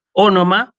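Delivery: "Onoma" said as o-NO-ma with a light rise at the end; Greek word demo. Shown as a demonstration. Teacher saying "Onoma" aloud before writing it, clear pronunciation. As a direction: model "Onoma" clearly, three even syllables o-no-ma. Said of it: "se los digo oralmente primero".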